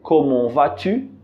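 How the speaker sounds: "Comment vas-tu?" said slowly with silent t; careful "comment vas-tu"; slow French demo. Shown as a demonstration. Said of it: "e a frase".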